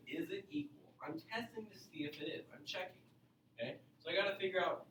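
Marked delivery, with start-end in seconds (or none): 0.1-0.9 hushed, breathy wondering question; whispered question. Shown as a demonstration. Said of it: "because I'm saying".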